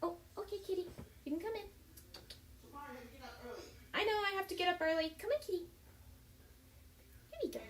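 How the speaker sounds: off-mic, calling to someone nearby; turned away from the mic, distant; turning away from phone. Real, not acted. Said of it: "Sorry, that was my mom".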